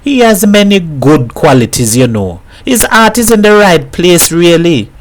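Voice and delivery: a neighbour pouring out her worry over her man; lightly voiced troubled woman confiding; worried Mrs Herrera.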